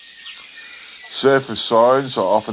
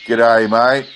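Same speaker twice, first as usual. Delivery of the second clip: laconic outback drawl; 5 dB louder than usual. Acted. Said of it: "the usual bush salutation".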